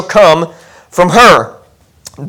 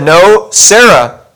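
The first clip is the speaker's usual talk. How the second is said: God speaking; much slower than usual. Acted. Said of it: "God said".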